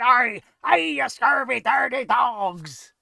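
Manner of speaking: slow, loud hammy pirate growl. Retold or imitated. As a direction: ham it up like a pirate. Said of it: "Sounds like talking like a pirate".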